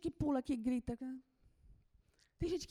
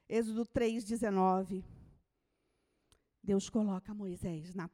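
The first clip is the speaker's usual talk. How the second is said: ordinary delivery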